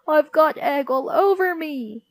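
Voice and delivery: put-on high, loud child's squeal; Tidy Ted's squeal. A narrator's reading. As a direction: squeal in disgusted dismay. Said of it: "squealed Tidy Ted".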